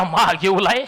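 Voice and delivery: मागेवलाय thrown back with a mild mocking rise; mocking echo. Villager mocking Chengta's odd word, lightly amused rise. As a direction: repeat मागेवलाय as a teasing question. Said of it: "Rama खराताला एकदम हसू फुटलं".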